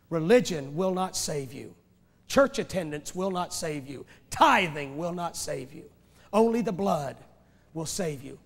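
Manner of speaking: slow, deliberate preacher's litany; slow emphatic litany. Real, not acted. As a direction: lay each line down slowly.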